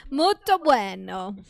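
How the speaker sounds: slow, playful put-on Italian; mock Italian accent. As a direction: show off fake Italian, drawing it out. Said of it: "So my Italian".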